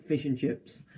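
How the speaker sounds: plain English accent after the put-on one; normal English accent. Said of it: "changed back to a normal English accent".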